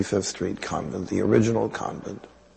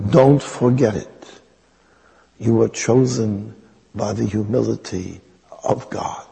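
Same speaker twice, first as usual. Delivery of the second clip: Mother Teresa. Retold or imitated. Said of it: "I have to use the accent".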